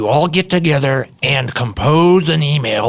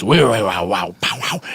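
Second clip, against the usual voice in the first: a musician's beatbox; 5 semitones lower than usual. Pretend. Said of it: "you know some of his songs".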